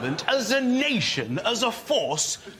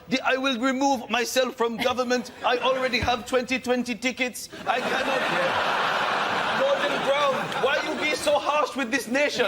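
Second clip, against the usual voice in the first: lightly higher, halting put-on Mugabe voice, a bit West Indian; Mugabe impression; 4 semitones higher than usual. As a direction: play a pompous Mugabe, pitched up and mock-grand. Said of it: "Like he's gonna go".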